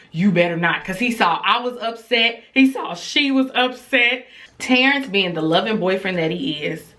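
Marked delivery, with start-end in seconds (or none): 0.1-0.8 firm warning at normal volume; retold firm warning, spoken up.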